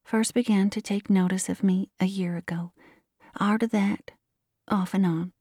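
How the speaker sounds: put-on girl reciting without expression; monotonous voice. A narrator's reading. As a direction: keep every word on one level. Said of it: "in a monotonous voice, as if it were a recitation".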